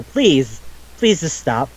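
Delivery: mildly acted pleading; half-earnest begging in a retold scene. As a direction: retell it as a light, pestering plea. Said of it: "They're just, like, begging her".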